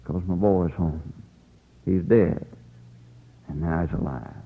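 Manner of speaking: soft, low, slowing fatherly joy; quietly moved, dropping low; tender relief. Acted. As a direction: let it sink to a hushed, heartfelt close. Father tells of son's return.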